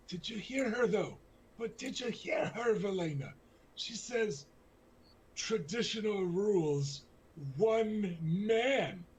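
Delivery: high, tipsy, outraged lady; indignant drunk noble. Acted. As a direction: huff like an offended drunk noblewoman. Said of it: "she's slurring a bit".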